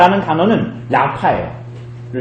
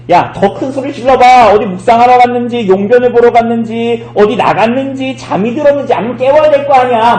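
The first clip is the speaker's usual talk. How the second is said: high-pitched, sustained taunting; mocking; 4 semitones higher than usual. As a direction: jeer at them in a raised, goading voice. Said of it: "엘리야가 조롱하는 거예요".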